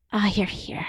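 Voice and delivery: soft whispered welcome; heartful whisper. Shown as a demonstration. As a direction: breathe it gently, full of compassion. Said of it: "somatic, heartful".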